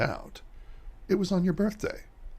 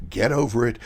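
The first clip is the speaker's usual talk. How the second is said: annoyed; 5 semitones higher, 6 dB louder than usual. Acted. Dismissive friend shuts down guilt.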